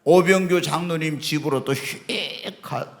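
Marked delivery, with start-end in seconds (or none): 1.7-2.1 drawn-out airy swish; imitated whoosh. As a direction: mimic a swift flight to another house. Imitates spirit flying off.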